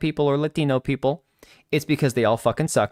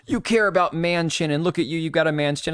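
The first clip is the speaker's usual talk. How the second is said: higher-pitched mock troll voice; mocking online freaks; 5 semitones higher than usual. Streamer imitating freaks online attacking her looks, mocking. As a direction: lightly mimic online critics in a raised voice. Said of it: "the freaks online always go".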